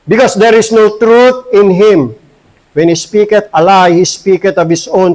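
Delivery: measured, solemn Bible reading; scripture reading. Acted. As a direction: read the verse out to the congregation. (pagbasa ng Bibliya nang taimtim)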